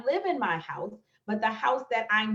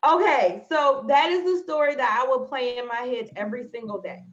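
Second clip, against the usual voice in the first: pulling herself together; 2 semitones higher, 5 dB louder than usual. Real, not acted. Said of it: "I knew I'm not supposed to be doing this live".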